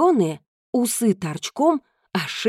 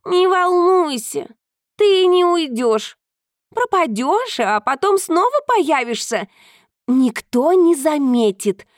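reassuring cat; 8 semitones higher, 3 dB louder, slower than usual. Acted. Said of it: "успокоил Баюн".

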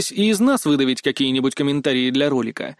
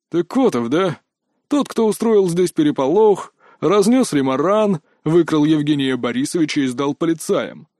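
angry guard. A narrator's reading. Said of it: "собеседник был реально зол".

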